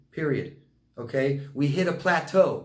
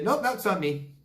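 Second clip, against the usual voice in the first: mock denial; 6 semitones higher than usual. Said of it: "reminds me of, like, a bad comedy skit".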